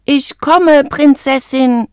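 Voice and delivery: high, drawn-out heroic call; loud calling out. A narrator's reading. Frog calling to his faraway princess, loud and drawn out. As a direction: call far across the land, high and stretched. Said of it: "rief er so laut er konnte".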